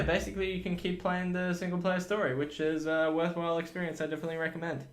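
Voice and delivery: sarcastic. Real, not acted. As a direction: recite the praise with obvious sarcasm. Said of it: "with any more sarcasm".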